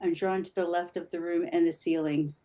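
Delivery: imitating your own whisper, softly; retold whisper. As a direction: drop your voice to mimic whispering. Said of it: "I'm whispering. I said".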